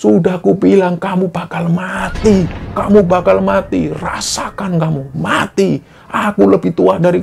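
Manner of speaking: put-on crazed, wild laughter with a man's laughing yells. A storyteller acts out Pak Yadi hearing a death announcement: imitating Pak Yadi's laughing shouts. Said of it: "teriak-teriak ketawa terbahak-bahak".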